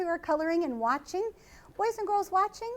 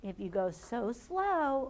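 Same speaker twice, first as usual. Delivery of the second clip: slow; 4 dB quieter, slower than usual. Shown as a demonstration. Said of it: "almost like that tortoise".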